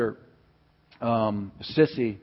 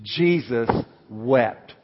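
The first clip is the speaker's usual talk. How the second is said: measured out-loud recitation, word by word; out loud for congregation; 4 dB louder, much slower than usual. Shown as a demonstration. Preacher leading congregation in memory verse, measured out-loud recitation. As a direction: say it out for all to repeat. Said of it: "Say this with me out loud".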